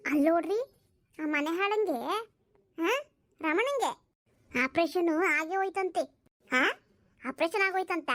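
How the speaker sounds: bitter gossip, voice climbing at the peaks; spiteful old woman. Acted. Old woman complaining to her daughter about a hated neighbour, spiteful.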